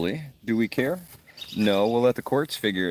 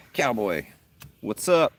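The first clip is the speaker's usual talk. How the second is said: excited greeting; 5 semitones higher, 5 dB louder than usual. Real, not acted. Greeting a viewer called Cowboy, loud and high. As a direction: jump up high and loud on what's up.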